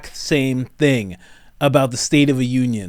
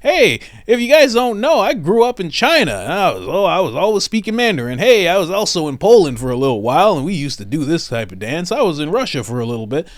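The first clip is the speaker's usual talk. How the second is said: mock Biden; 3 semitones higher than usual. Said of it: "then he'll be like".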